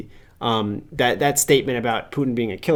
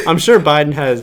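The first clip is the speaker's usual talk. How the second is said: put-on Russian accent; 3 semitones higher, 6 dB louder than usual. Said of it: "I guess I do the Russian accent".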